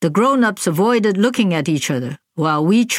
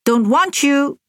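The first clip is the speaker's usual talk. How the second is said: "Don't want you", want pushed high and louder; a child's raised refusal, lightly voiced; said loudly; 8 semitones higher than usual. A narrator's reading. Little sister repeating to her mother, louder. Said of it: "she repeated loudly".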